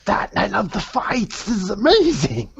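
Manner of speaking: high, loud thrilled noble; excited gushing. Acted. Damien thrilled by the arena, high and loud. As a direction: squeal over the fights. Noble gushes over fights.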